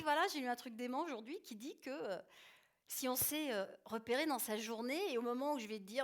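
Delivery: récit enthousiaste, plus haut et plus fort; excitée. Retold or imitated. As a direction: raconte la découverte avec entrain à la famille. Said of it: "relativement excitée par l'information". (la mère annonce à table sa découverte, tout excitée)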